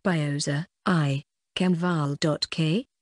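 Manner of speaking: put-on slow lisping toddler talk; garbled baby speech. Shown as a demonstration. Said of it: "really sounded like this".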